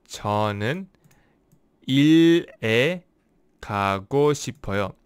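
저는 일에 가고 싶어요 said slowly with pauses; slow careful take. Shown as a demonstration. Teacher trying the Korean sentence again slowly. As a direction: space out 저는, 일에, 가고 싶어요. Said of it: "when I speak slowly".

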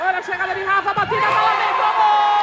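rising from excited to a shout; building goal call. Real, not acted. Gol narrado ao vivo. (narração crescendo até o grito de gol)

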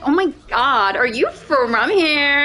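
imitated LA valley-girl accent; American valley girl. LA barista asking a customer, valley girl accent. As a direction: ask it with valley-girl uptalk. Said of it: "they'll be like".

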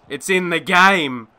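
slow, sarcastic slogan delivery; mock slogan read. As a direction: drawl the ad line with scorn. Mocking the EA slogan.

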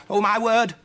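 high, loud startled gasp; gasped surprise. Acted. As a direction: gasp it out in shock. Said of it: "she gasped".

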